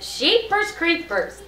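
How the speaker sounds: high, slow, drawn-out exclamation; excited. A narrator's reading. Teacher character exclaims at the nurse's rhymes, excited. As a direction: stretch out the amazement. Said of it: "I'm making my voice sound excited".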